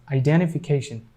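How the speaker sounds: "identification" with no t after the n; American silent T. Shown as a demonstration. Teacher shows how Americans say it, silent T. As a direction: drop the first t in "identification". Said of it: "American people pronounce this word as".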